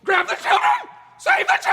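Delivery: sing-shout up the scale; rising vocal scale. Acted. Vocal warm-up octave climb.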